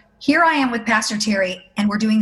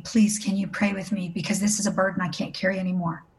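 softer, subdued retelling of a whispered confession; retold tearful whisper; 2 semitones lower, 5 dB quieter than usual. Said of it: "she whispers in my ear. She's weeping".

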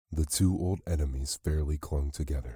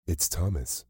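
surprised cry. A narrator's reading. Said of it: "cried Sarah Riding".

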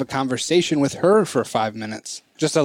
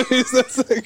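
put-on lightly done posh London accent, slow; a touch of elegant posh London drawl; 8 semitones higher, slower than usual. Joking about toddler's posh London accent, lightly posh London. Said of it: "very posh London accent".

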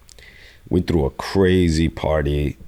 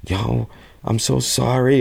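put-on panicked girl; 8 semitones higher than usual. Panicked girl calling from cell.

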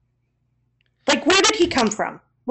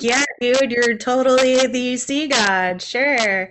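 placating. Pretend. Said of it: "maybe be like".

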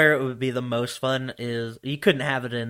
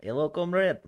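put-on Russian accent; 6 semitones higher than usual. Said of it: "use your Russian accent".

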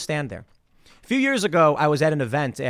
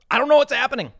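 mock bewilderment; 8 semitones higher, 4 dB louder, faster than usual. Bewildered man being screamed at, retold.

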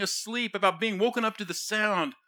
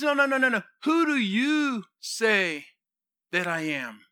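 raised pitch, stretching out the question; insistent questioning. Acted. Jesus pressing his disciples for their own answer, insistent.

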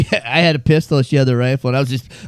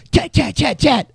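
gunfire imitation; 9 semitones higher than usual. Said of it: "all of a sudden I hear".

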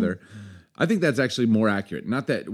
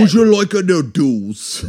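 high, loud, slow fake Irish; bad Irish accent; 6 semitones higher, 7 dB louder, slower than usual. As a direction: overdo a hopeless Irish accent. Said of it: "I can't do Irish".

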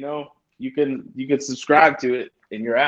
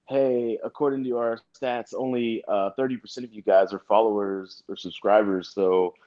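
YouTuber voice; 2 semitones lower than usual. Retold or imitated. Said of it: "They do this thing where they're like".

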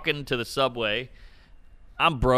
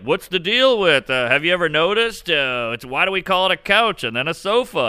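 lightly voiced corny observational comic; mock old-school stand-up setup; hack comic bit; 5 semitones higher, 3 dB louder than usual. Comic mocking his early act as a corny observational comic. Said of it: "doing a lot of, like".

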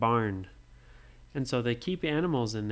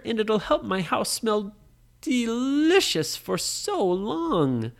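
high, louder granny voice, stretching the last words; old woman; 7 semitones higher, 5 dB louder than usual. Acted. Old woman explaining the plant to Nora, high and lilting. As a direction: coax her with a dreamy old lady lilt. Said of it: "the old woman said".

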